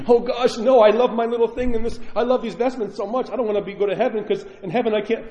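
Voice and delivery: high, whiny mocking voice; a priest mocking worldly attachment in a high, whiny voice; mock worldly person. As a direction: lampoon someone clinging to their things. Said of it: "Most of us don't live that way".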